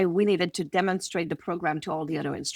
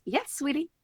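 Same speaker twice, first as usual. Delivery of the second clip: softer, higher, gentle sing-song reply; sweet mom voice; 4 semitones higher, 3 dB quieter than usual. Retold or imitated. Mom answering her daughter calmly, soft and sweet. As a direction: coo it kindly to a little girl.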